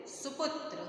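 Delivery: सुपुत्र said quickly with short सु and पु; quick short vowels. Shown as a demonstration. Teacher showing students quick short u in सुपुत्र. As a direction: clip both u sounds in सुपुत्र short and fast. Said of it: "तो जल्दी से बोल रहा है".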